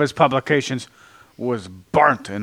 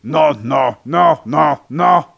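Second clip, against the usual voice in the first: rising, louder protest no, no; 3 semitones higher, 5 dB louder, slower than usual. Real, not acted. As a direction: cut them off, escalating. Protesting the joke.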